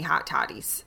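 slight Northern Illinois vowels on hot toddies; Northern Illinois accent. Real, not acted. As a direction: let a little Northern Illinois slip out. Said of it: "my Northern Illinois is showing".

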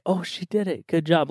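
a softly voiced cheer-on; supportive voice. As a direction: lightly mimic a supportive inner voice. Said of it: "There'll be, like, a supportive voice".

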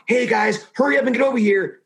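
hurried teacher call. Retold or imitated. Teacher calling kids over.

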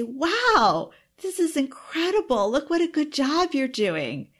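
put-on high, bright praise to a child; delighted parent praising her daughter; excited praise. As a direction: gush over her good job. Parent praises child's organized books.

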